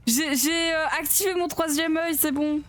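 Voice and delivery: high, excited exclaiming; thrilled, pitch up throughout. Real, not acted. Excited after spotting anomalies.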